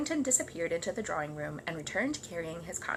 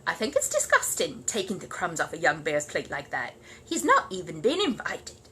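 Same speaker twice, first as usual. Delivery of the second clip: disgusted housekeeper; 3 semitones lower than usual. Acted. Housekeeper complaining to the Browns, disgusted. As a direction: voice her distaste, slowing at the end.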